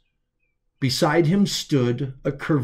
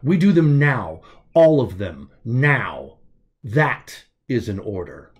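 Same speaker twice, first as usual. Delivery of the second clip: louder, commanding and decisive; firm command; 3 dB louder than usual. Acted. Otto orders Zeb to continue now, firm and loud. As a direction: lay down the order.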